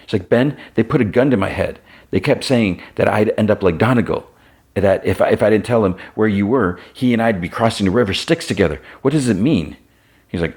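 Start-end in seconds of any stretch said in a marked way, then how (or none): 0.3-9.8 higher, upset and rattled; shaken. Retold or imitated. Secretary telling Ben about the gun to her head, upset and higher. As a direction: pour out the fright, pitch climbing to the question.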